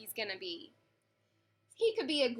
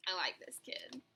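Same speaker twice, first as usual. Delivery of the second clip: unvoiced, softer aside to the listeners; whispered aside; 6 semitones lower, 10 dB quieter than usual. Real, not acted. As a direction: lean in and whisper your fondness.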